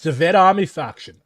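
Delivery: German accent, V for R. Shown as a demonstration. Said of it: "I'm going to use this ridiculous German accent".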